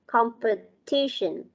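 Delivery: "Competition" slowly, stress on the TI syllable. Shown as a demonstration. Teacher showing word stress to pupils, slow stressed "Competition". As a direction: lean on TI in "Competition". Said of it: "Nó sẽ nhấn trọng âm vào chữ".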